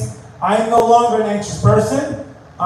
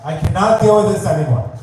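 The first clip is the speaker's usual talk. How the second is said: exasperated plea. Acted. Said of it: "You have to talk like that".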